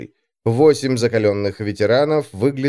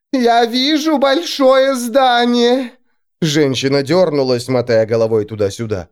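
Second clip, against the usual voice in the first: prophesying seer; 12 semitones higher, 3 dB louder than usual. A narrator's reading. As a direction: intone visions in a trance.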